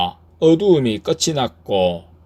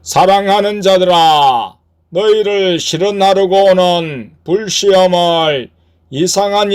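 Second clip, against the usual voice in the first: higher, sustained declaiming voice; scripture proclamation; 6 semitones higher, 5 dB louder than usual. Acted. Lord's word delivered to the church, raised scripture proclamation.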